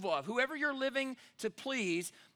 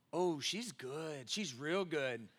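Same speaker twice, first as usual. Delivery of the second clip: amused realization; 4 semitones lower, 6 dB quieter, much slower than usual. Retold or imitated. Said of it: "I thought".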